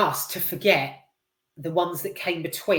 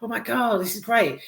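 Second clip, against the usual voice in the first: higher-pitched, mock-thrilled kid reaction; retold boyhood excitement; 5 semitones higher than usual. Recalling first watching Halloween as a boy, mildly excited. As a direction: retell being thrilled, starting hushed and high. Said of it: "I nearly shat myself with excitement".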